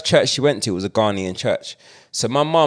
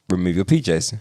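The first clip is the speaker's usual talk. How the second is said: calm mum; 5 semitones lower than usual. Retold or imitated. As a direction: say it coolly like a composed mum. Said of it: "my mum told me".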